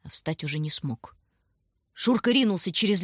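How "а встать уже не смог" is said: plain reading voice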